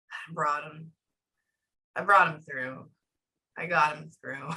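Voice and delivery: low mock spirit voice that breaks into a shout; imitating the spirit. Medium acting out the spirit's words to the sitter, low then shouting. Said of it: "Like that".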